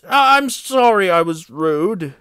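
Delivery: hurried, stammered apology; hasty. A narrator's reading. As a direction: backtrack in a hurry. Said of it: "said Henry hastily".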